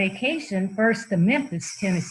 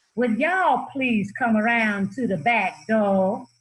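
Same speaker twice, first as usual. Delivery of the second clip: put-on drawling Southern accent. Retelling what a woman said on opening her door to him and his uncle, in a Southern drawl. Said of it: "(WITH SOUTHERN DRAWL)".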